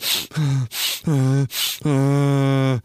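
drawn-out mock sobs; imitated crying. Comedian shows himself crying along with others, mock sobbing. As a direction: fake sobbing in long moans. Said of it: "If I see someone else crying".

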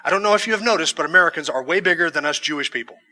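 lightly imitated Israeli Jewish accent; mild imitation of a Jewish shopkeeper's accent. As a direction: retell it with a hint of a Jewish accent. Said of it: "in this Jewish accent".

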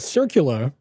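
Circular with a dropped final r, Boston accent. Real, not acted. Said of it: "that was my Boston accent coming out".

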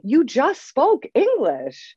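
high, slow, pointed reminder; emphatic insistence. Retold or imitated. Coach mirroring back to a client, emphatic insistence. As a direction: hammer it home with exaggerated patience.

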